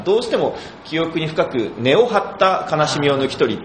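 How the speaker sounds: 記憶に深く根を張った悲しみを抜き取り said slowly in Kansai intonation; 関西イントネーション; Kansai intonation slip. Retold or imitated. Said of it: "ってなっちゃって".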